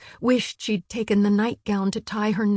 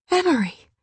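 calling out; 7 semitones higher than usual. A narrator's reading. Spots friend in river.

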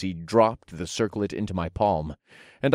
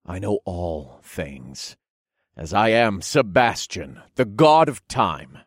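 solemn god; slower than usual. Acted. God proclaims himself.

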